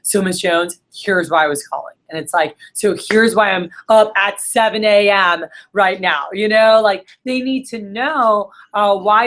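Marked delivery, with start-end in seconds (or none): 0.0-1.9 change of tone. Shown as a demonstration. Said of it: "you've gotta change your tone a little bit". 2.7-6.3 slow, deliberate, getting down to business; slow it down and make it matter; serious shift in tone. Shown as a demonstration. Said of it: "you've gotta change your tone a little bit".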